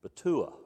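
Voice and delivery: betua said carefully as be-tu-A; slow, careful betua, stress on the last syllable; Hebrew word betua. Shown as a demonstration. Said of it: "the Hebrew word is pronounced".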